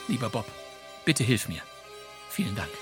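ordinary talk

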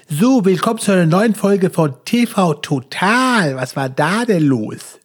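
slow, drawn-out TV host voice; slow late-night TV host voice; Stefan Raab impression. Shown as a demonstration. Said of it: "ich kann Stimmen parodieren".

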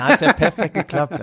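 laughing through it. Real, not acted. Laughing at the joke about remembering.

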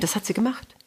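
unvoiced whisper. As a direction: breathe the words without voice. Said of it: "geflüstert".

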